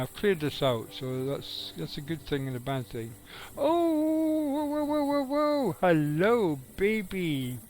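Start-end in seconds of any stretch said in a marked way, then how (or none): 3.6-5.8 real startled whoas, much higher and louder; surprised whoa. Real, not acted. Gamer spotting a wyvern, surprised high whoas. 5.8-7.6 louder delighted hello to a pet; cooing hello, thrilled; excited greeting. Real, not acted. Gamer greeting a found wyvern, excited and louder.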